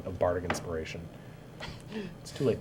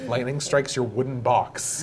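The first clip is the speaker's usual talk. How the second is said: laughing; 3 semitones higher, slower than usual. Real, not acted. DM laughing through ruling.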